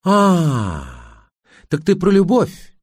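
mock realisation leaping up high; wife's high, angry jibe; rising anger. A narrator's reading. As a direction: needle him as the temper starts. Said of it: "Она начала злиться".

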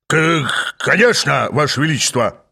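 stammered start, then eager assent; brisk obedience. A narrator's reading. Flustered guard answers his king, briskly obedient. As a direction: snap to it after a flustered stammer. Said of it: "бодро отозвался он".

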